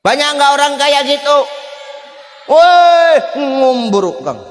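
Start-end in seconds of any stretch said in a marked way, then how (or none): 2.5-4.4 high shouted hail; calling out. Acted. Preacher hailing a boastful rich man with a shout. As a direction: yell across at a show-off.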